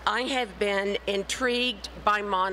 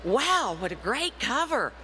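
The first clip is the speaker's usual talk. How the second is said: impressed wow; 3 semitones higher than usual. Retold or imitated. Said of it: "the first thing they say is".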